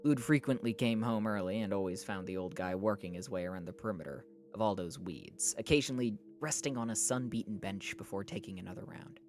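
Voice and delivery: measured audiobook-style reading; story narration. A narrator's reading. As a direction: read it out as a novel's narrator. Reads a novel aloud.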